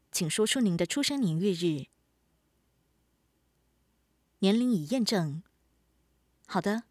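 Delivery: even, polite automated assistant voice; smart speaker. Acted. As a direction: read it like a voice assistant announcing modes. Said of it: "陪伴已暂停".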